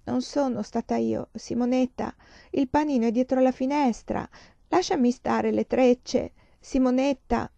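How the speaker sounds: lightly voiced whining child in a trance; delirious child. Feverish girl raving at a schoolmate, mild lamenting tone. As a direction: plead dreamily, as if talking in sleep. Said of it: "una voce simile a quella di chi parla in trance".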